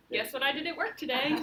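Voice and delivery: cheery, quick mock chatter; mock joyful. Teacher mocking a joyful Death to the class, quick and cheery. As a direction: play it as a chirpy, happy storyteller. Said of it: "is his attitude joyful?".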